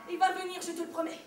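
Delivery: put-on soft, quiet reassurance to a child; soothing promise. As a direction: promise it gently, almost under the breath.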